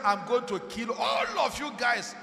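mildly acted royal anger, stretched on "all"; a touch of anger in a preacher's retelling; retold angry threat. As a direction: imitate an angry king's threat. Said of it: "he was so angry".

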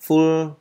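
"Full" high and loud with a clear final L; emphatic teacher's "Full", L pronounced. Shown as a demonstration. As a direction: sound out the L ending of "Full". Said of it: "các bạn đọc rõ chữ L cuối cuối cùng ra".

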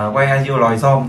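joking mispronunciation. Retold or imitated. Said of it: "ta thường chế với nhau là".

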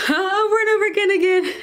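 giggling as she repeats it over and over; giggly repeat. Shown as a demonstration. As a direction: laugh it out, playful and silly. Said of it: "I'm sorry, I'm weird".

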